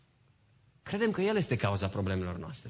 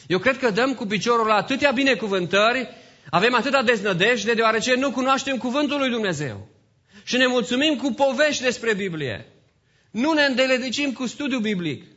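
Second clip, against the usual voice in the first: high, loud pulpit exhortation; raised-voice sermon rebuke; impassioned preaching; 11 semitones higher, 7 dB louder than usual. Real, not acted. Preaches at full force.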